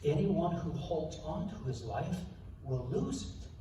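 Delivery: low, hushed and reverent; solemn quotation. Acted. Disciple recalls Jesus's words on eternal life, solemnly. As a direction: let it sink softly, phrase by phrase.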